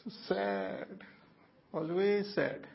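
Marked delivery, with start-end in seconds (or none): 0.0-1.0 breathy whisper. Real, not acted. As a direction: whisper it to yourself. Whispered aside after laughing.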